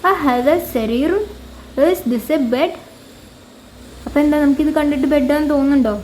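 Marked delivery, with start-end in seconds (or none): 0.1-2.7 slow, careful reading with rising ends; slow teacher reading; slow model question. Shown as a demonstration. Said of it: "ഈ ഒരു കാര്യം കാണിച്ചിട്ട് ചോദിക്കുവാണ്".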